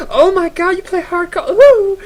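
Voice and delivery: put-on very high, loud girly squeal; hammed-up shrieking girl losing it over a gamer; squealing fangirl. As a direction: gush like a fangirl who just met her idol. Imagined girl falling for him.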